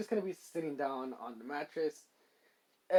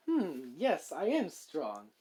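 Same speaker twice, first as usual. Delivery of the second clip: mildly cocky, self-satisfied musing; lightly puffed-up swagger with swooping pitch; much slower than usual. Acted. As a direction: savour the compliment, a little full of yourself. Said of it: "getting the whole cocky attitude".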